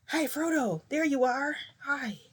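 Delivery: put-on high, sing-song baby-talk greeting. Mocking how Endeavor coos at his grown son. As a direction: coo at him like he's a baby. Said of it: "stop talking to him like he's a baby".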